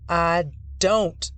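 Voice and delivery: loud angry denial; roaring denial. Acted. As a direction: roar it back. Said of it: "Grant roars".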